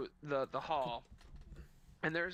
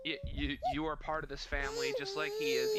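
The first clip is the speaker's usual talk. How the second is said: tearful motherly stepmom; 3 dB louder, faster than usual. Retold or imitated. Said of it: "Yeah, Molly Weasley".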